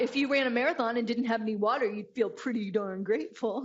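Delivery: a quick, mildly put-on voice for husband; husband's retort. Husband lecturing wife about gratitude, lightly mimicked. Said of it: "But then he's like".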